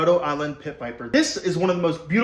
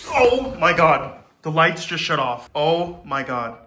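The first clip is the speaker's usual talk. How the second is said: alarmed; 6 dB louder, slower than usual. Real, not acted. Lights go out, snake loose.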